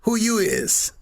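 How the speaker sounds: lightly voiced stranger sizing him up; retelling the guy in the wheelchair confronting him; imitating a tough local. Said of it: "this is his exact words".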